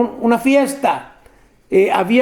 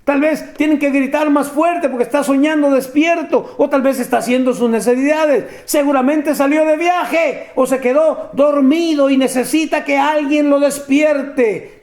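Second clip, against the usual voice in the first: higher, sarcastic jeering taunt; mocking taunt; 3 semitones higher than usual. Preacher voicing Elijah jeering at Baal's priests, mocking. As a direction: jeer at them like Elijah did. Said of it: "se está burlando de ellos y les dice".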